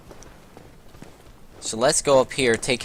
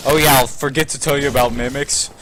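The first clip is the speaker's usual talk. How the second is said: higher, louder mock breezy voice; mock careless; 4 semitones higher, 5 dB louder than usual. Player mocks a careless guide forgetting the mimics. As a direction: toss it off like you couldn't care. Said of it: "I'm not gonna just be like".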